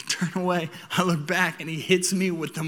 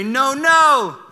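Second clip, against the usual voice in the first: firm, louder and higher warning no; the dad voice; 7 semitones higher, 8 dB louder than usual. Retold or imitated. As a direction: stop the toddler cold with a stern dad warning. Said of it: "I hit him with the dad voice".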